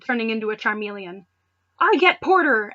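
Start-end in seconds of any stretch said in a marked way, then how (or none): 1.8-2.7 eager claim. Acted. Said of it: "Ash said".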